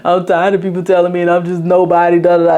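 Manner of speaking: mild exhausted moan to herself; a touch of giving up; weary sigh. Retold or imitated.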